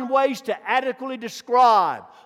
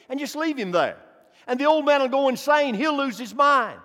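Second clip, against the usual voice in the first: full-force preaching; faster than usual. Acted. Preacher stirring the congregation, rising full-force preaching. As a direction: build it up and drive it home.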